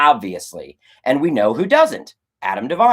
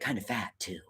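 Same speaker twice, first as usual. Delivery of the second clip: grounded serious delivery; 6 semitones lower, 18 dB quieter than usual. Retold or imitated. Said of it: "delivered it the way a grounded, serious actor would".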